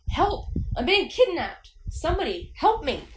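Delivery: loud, high, shrill dummy voice; high shrill scream. A narrator's reading. Dummy pretending to be kidnapped, high shrill scream. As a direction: shriek for rescue in a shrill puppet voice. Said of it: "screamed in a high, shrill voice".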